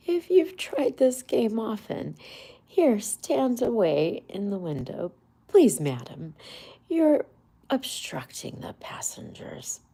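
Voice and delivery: clerk's brusque order. A narrator's reading. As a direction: shoo the nuisance from the window. Clerk ordering Toad away.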